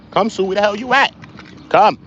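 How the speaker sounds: high-pitched summons; calling the dog. Real, not acted. Streamer to the dog off somewhere, calling out high. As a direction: call out sharply for a dog that has wandered off.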